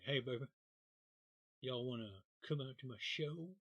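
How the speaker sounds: put-on southern twang; southern accent. Comedian in Branson invites folks to his show, mock southern accent. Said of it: "he talks with a southern accent now".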